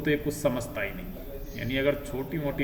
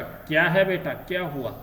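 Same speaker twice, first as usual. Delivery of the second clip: alarmed mother; 3 semitones higher, 4 dB louder than usual. Acted. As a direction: rush to the sick child in a fright. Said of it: "घबरा कर". (घबराई हुई माँ, ऊँची और ज़ोरदार आवाज़ में)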